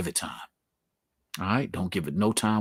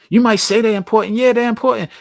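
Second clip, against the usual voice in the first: loud, high, ironic emphasis on important; wry understatement; 11 semitones higher, 9 dB louder than usual. Acted. To the audience about family, mock-casual irony. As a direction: say it like it's obvious.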